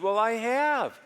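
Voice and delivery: a hint of a hurt wife; wife's voice. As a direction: imitate his wife owning up. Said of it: "She said".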